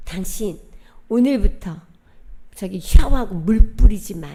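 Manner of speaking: loud, sharp order at the door; husband's order. Retold or imitated. Husband at the door forbids showering, loud order. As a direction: bark the rule at her as she walks in.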